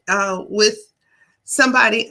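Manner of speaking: talking around a hair in the mouth; words caught on a stray hair. Real, not acted. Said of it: "I had this hair in my mouth".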